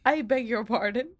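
high, prim indignant pardon; be politely scandalised; a young lady offended by a nosy matron; affronted. Acted. Character affronted reply.

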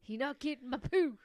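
high, loud put-on voice; mock defiant refusal. Co-host playing the cook refusing samples, mock defiance.

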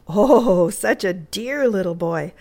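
put-on mildly gushing child; eager. Amy breaking in to tell Papa, eager. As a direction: break in with a big "Oh". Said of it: "broke in Amy eagerly".

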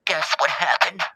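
high-pitched imitation of an excited mother; excited mom. Mom calling her son at work, excited imitation. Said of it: "She calls me at work all excited".

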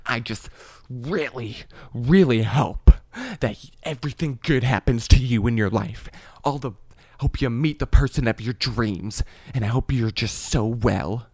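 mock-sincere, leaning hard on the words; sarcastic well-wishing. Wishing an ex well, bitterly sarcastic. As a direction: overdo the good wishes so they mean the opposite. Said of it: "It just sounds like the complete opposite".

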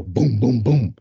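punchy, emphatic booms; imitated thumps. Sudden hits on his shoulder mid-dance, punched out. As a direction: punch each boom like a hit.

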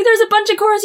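high, helpless whine; a lighter echo of the panicked wail; retold panic. Retold panic, repeated quote.

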